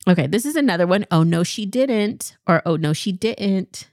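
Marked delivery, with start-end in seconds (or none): 1.1-2.4 sassy, slightly higher take; first version, a bit higher and sassier. Shown as a demonstration. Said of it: "say it the second way". 2.6-3.9 second version, settled and lower; lower sassy. Shown as a demonstration. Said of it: "say it the second way".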